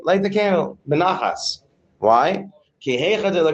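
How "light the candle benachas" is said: calm request, not an order; calm, gentle instruction. Shown as a demonstration. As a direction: demonstrate asking peacefully and without force. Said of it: "He has to say it calmly".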